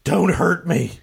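slow, drawn-out plea; mild in-character pleading. Acted. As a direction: beg them, stretching the words out.

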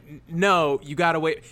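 insistent retold correction, stumbling in; mildly frustrated. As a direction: imitate someone losing patience. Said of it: "getting slowly more frustrated".

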